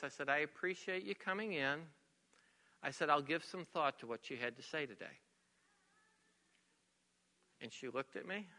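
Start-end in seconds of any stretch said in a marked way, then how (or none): 0.3-1.8 soft, composed reply. Retold or imitated. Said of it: "in a very soft voice". 3.1-5.2 low, soft, measured courtesy. Retold or imitated. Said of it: "in a very soft voice".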